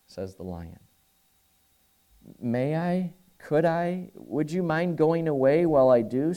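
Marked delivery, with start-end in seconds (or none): 2.4-6.3 put-on a girl's voice lifted a little higher, nervously asking; timid pleading girl. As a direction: ask shyly and a bit higher, like a frightened girl. Jill pleads with the lion.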